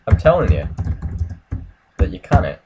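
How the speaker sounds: loud and insistent; laut beharrend. Real, not acted. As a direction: drive it home, loudly. Insists game setting won't work.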